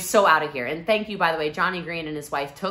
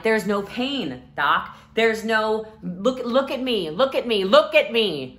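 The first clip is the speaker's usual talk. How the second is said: higher, louder, look at me repeated; insistent plea; 5 semitones higher, 5 dB louder, slower than usual. Retold or imitated. Patient insisting to the doctor, higher and louder. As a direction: insist the doctor see she is fine. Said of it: "I'm like".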